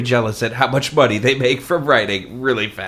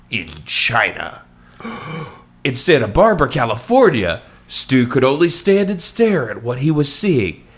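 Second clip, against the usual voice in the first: theatrical, deliberate audiobook reading; story narration. Acted. Host reading Stu's story to co-host, dramatic narration. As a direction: read it out with dramatic emphasis and lifted phrases.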